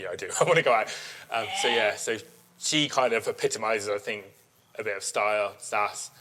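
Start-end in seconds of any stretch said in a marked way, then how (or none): 0.0-0.9 louder, laughing, keen; laughing eager yes. Retold or imitated. Owner gladly accepting to leave the ring, laughing. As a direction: blurt it out gratefully, laughing. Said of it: "I'm like".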